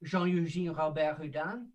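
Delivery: a playful, modest stab at French for "Jean-Eugène Robert Houdin"; lightly Frenchified "Jean-Eugène Robert Houdin" in a self-mocking show-off way; French accent. Shown as a demonstration. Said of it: "an amazing French accent like mine, I'll say that again".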